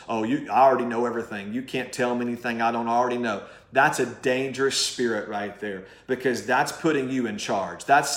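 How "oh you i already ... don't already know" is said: fast, dismissive know-it-all; a hint of a smug know-it-all, rattled off fast. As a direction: brush off any correction, quick and smug. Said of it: "talks like this".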